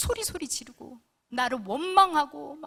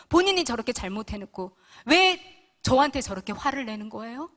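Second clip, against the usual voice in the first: louder, demanding complaint to God; indignant prayer; 4 dB louder than usual. Retold or imitated. Wife telling God she is done, loudly indignant. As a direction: lay down the verdict, loud and aggrieved. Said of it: "통보하듯이 기도를 하기 시작했어요".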